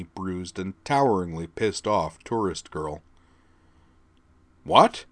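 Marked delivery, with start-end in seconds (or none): 4.6-5.0 loud, high confused question; he just doesn't follow; baffled what. A narrator's reading. Sergeant lost for words, baffled loud what. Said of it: "the sergeant said".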